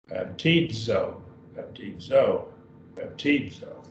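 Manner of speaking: baptizo said as bap-TEED-zo with a dz sound; teacher's model Greek. Shown as a demonstration. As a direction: repeat baptizo for the class, stressing the zeta. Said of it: "And the zeta right there".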